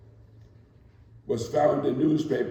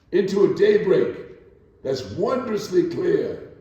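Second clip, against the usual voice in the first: triumphant build; 3 semitones higher, 4 dB louder, slower than usual. Acted. Poem finale builds.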